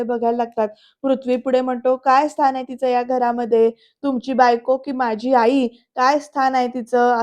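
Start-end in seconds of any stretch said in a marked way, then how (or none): 2.0-7.2 angry demand. Retold or imitated. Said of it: "असं एकदम चिडून विचारतो".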